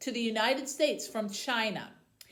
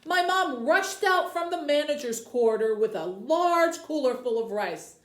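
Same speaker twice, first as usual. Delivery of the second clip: story narration. Acted. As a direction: tell the story like a children's librarian. Librarian reads novel aloud.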